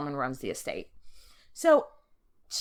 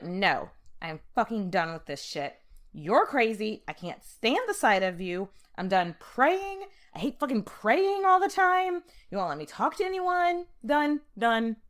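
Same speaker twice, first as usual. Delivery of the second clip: mock fury building; 3 semitones higher than usual. Hortense storming at her husband, mock rage building. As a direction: act out her outburst, building up.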